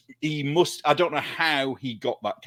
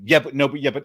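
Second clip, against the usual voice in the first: a light put-on of a teen dodging the question; a touch higher, a stroppy "yeah but" that never lands; Vicky Pollard impression; 3 semitones higher, 3 dB louder, faster than usual. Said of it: "So when you challenge them over something".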